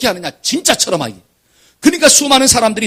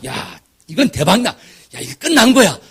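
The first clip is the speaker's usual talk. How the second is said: swindler hype; 4 dB louder, slower than usual. Retold or imitated. Preacher mimics a con man hyping a sure win, hammed-up. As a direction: hype the deal hard. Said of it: "이런 사람은 조심하기를".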